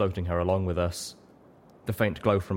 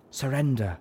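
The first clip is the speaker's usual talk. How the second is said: higher, gentle plea; offering surrender; 6 semitones higher than usual. A narrator's reading. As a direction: Velvet offers the hellhound surrender. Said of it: "she offered to the creature".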